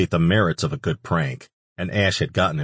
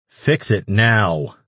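slow, louder, hammered command; angry order; 3 semitones higher, 4 dB louder, much slower than usual. Acted. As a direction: bite out each word as a demand. Antonio furious at the prank.

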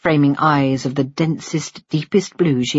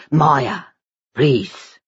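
lightly lowered voice of a doting father; tender father. Acted. Father promising his baby son a future, tender. Husband hushes wife.

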